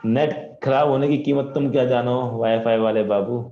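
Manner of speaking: slow, loud filmy hero line; filmy dialogue. Pretend. Teacher hams a film line about bad wifi. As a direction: deliver it like a Bollywood hero.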